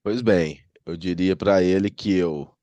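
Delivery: talking through a blocked nose; stuffed-up nose from a cold; nasal voice. Real, not acted. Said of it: "tô bem fanho".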